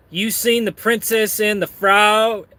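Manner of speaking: lightly hammed-up question; Kevin. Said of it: "Kevin says".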